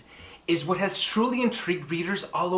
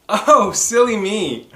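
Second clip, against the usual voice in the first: louder, slowed playful self-scolding; mock silly; 3 semitones higher, 7 dB louder, slower than usual. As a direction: tease yourself for forgetting. Host forgets to introduce author.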